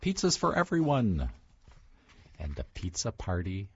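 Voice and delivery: storybook read-aloud; picture book read-aloud, lightly animated; reading to children. Acted. Author reads picture book aloud.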